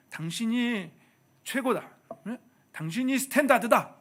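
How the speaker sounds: overselling the compliment to the wife; mock gushing praise. Husband gushing to his wife, hammed-up and loud.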